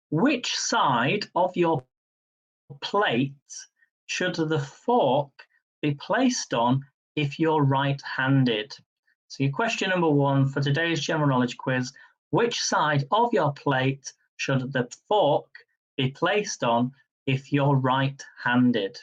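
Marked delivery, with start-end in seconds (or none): 0.1-8.7 slow, deliberate quiz-question read; slow, measured quiz host; quizmaster reading. Acted. Reads quiz question slowly. 12.3-19.0 slow, deliberate quiz-question read; slow, measured quiz host; quizmaster reading. Acted. Repeats quiz question slowly.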